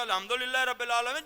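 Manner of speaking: "الحمدللہ" in casual, unarticulated everyday style; عام style. Shown as a demonstration. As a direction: say "الحمدللہ" with a plain h, run together. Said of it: "جو ہمارا عام style ہے". (عام سرسری انداز میں الحمدللہ)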